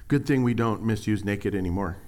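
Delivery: dripping sarcasm. Acted. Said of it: "Sense the dripping sarcasm right there".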